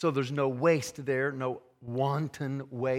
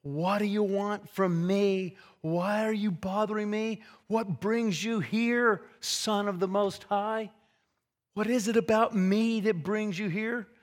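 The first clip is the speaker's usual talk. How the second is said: higher-pitched, mildly dramatized demon cry; mock wild scream; 4 semitones higher than usual. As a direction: act out the screamed questions without really screaming. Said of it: "screaming wildly".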